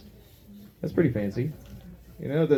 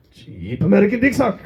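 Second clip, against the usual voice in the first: higher, louder mock Chinese accent; 6 semitones higher, 5 dB louder than usual. Shown as a demonstration. Comic performs the name for the crowd in a Chinese accent. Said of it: "say it with the accent".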